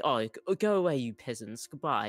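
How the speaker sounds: a touch of a haughty royal dismissing peasants; light mock snootiness, brushing them off; pompous noble. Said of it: "not pompous where I'm like".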